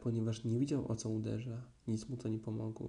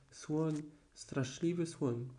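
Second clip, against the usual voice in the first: frightened cry; 4 semitones higher, much slower than usual. Acted. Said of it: "krzyczał prosiaczek".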